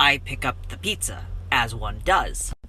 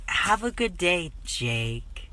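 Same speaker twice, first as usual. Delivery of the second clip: imitated pitying sweetness; mock-tender sympathetic goodbye; 4 semitones higher, 4 dB quieter, slower than usual. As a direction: coo it sympathetically, higher then sinking soft. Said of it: "in that sort of, aw, voice".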